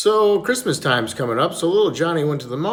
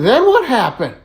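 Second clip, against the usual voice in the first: louder, higher, hungry for the next detail; eager prodding; 6 semitones higher, 5 dB louder than usual. Acted. Little Johnny questioning the parrot about his wife, eagerly. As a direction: press for more, mock urgency.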